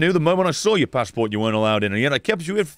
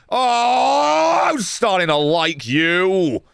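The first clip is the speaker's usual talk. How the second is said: delighted outburst; 3 semitones higher, much slower than usual. Real, not acted. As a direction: gush over the polite one. Overjoyed at polite traveler.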